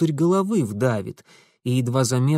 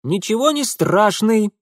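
higher, firm statement; firm declaration; 8 semitones higher, 4 dB louder than usual. A narrator's reading. Darinka firmly defending Mitya, higher voice. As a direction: state it flatly. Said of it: "твёрдо объявила Даринка".

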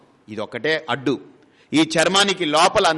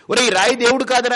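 mock scolding; 8 semitones higher, 4 dB louder, faster than usual. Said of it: "అని తిట్టకండి".

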